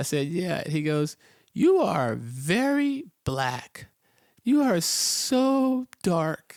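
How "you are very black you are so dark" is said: very high, very slow, drawn-out mock awe. Retelling what a boy he has known since birth said to him: imitating a boy's awe. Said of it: "He says it with like this look of awe and wonder".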